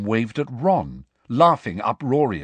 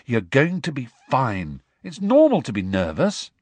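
firm reassurance, pitch lifting; steady a nervous friend firmly; firm encouragement; 4 semitones higher than usual. Acted. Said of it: "said Harry firmly".

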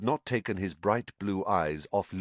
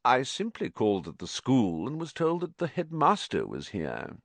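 sneering; 6 semitones higher than usual. Acted.

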